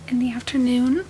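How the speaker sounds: talking with a numb mouth; numb from the dentist. Real, not acted. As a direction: numb lips after a tooth extraction. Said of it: "My mouth is still numb".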